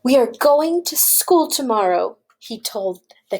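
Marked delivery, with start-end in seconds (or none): 0.0-2.2 lifted, lively farmer's announcement; excited announcement. Acted. Farmer telling the cows about school, excited. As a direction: share big news with excitement.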